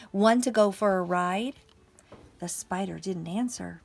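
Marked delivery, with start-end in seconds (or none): 0.1-1.6 loud, lightly voiced horse; projected question, rising at the end; storybook horse. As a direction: call out an invitation as the horse. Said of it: "said the horse".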